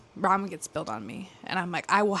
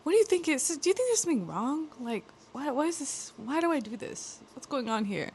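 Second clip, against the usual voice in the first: higher, worried, searching questions; retelling how she worried to her best friend, a bit higher and anxious; anxious questioning; 5 semitones higher than usual. Retold or imitated. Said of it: "being like".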